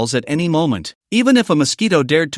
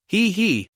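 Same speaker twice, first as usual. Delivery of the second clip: short, cool little laugh; a dismissive he-he under the breath; indifferent chuckle; 5 semitones higher, 4 dB quieter than usual. Acted. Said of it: "Chen Shen smiled indifferently".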